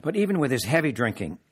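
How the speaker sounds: measured, deliberate reading voice; memoir reading. A narrator's reading. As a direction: read it like a story to an audience. Author reads memoir aloud.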